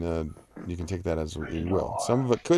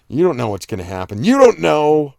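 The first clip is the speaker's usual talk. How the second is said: teasing; 8 semitones higher, 11 dB louder than usual. Real, not acted. Teasing chat about spoilers.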